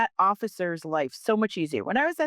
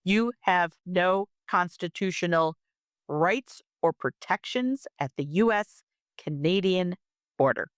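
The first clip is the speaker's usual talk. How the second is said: said again slowly. Shown as a demonstration. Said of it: "Let me say that again slowly".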